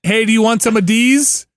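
leading setup with D's hit hard; hard stress on D's. Retold or imitated. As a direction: punch the final word D's as bait. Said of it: "says, like, the D's real, like, hard".

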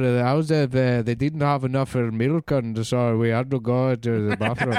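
lightly put-on Indian accent; a hint of Indian accent. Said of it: "when you do an Indian voice".

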